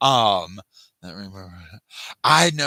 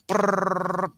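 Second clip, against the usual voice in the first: motor-mouth brrr; 9 semitones higher, 4 dB louder than usual. Shown as a demonstration. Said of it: "yeah, I talk like this".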